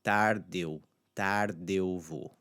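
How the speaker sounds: "tarde eu" joined slowly without a break; blended vowels. Shown as a demonstration. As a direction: draw "tarde" into "eu vou" as one sound. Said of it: "that blend that's gonna cre-, be created".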